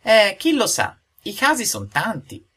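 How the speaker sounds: put-on unruffled, slow old wisdom; calm fatherly proverb. A narrator's reading. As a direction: refuse to take the bait. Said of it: "ripeté Geppetto senza scaldarsi".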